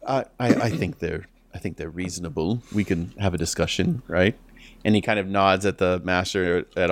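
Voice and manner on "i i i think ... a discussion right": prince voice. Acted. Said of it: "he says".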